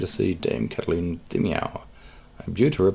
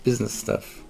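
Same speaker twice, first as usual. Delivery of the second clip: put-on lightly higher girlish voice; a touch of naive cheer; young cat lady; 4 semitones higher than usual. Cat client explains to her lawyer in a lightly higher voice.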